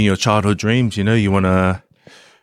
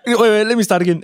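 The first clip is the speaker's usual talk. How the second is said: retold flustered restart; 9 semitones higher, faster than usual. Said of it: "And I'm like".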